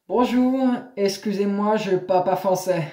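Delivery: French with a put-on American accent. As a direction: imitate an American struggling through French. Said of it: "l'accent américain comme ça".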